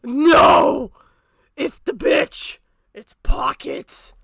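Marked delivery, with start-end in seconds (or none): 1.6-4.1 slow whispered aside, breath only; hushed whisper. Real, not acted. Whispering slowly to chat as Pockets appears. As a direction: whisper it slowly like you've spotted her.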